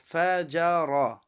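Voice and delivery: فجر ending on a thick, heavy ر. Shown as a demonstration. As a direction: round out the ر in فجر. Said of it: "حرف را در اینجا غوص است".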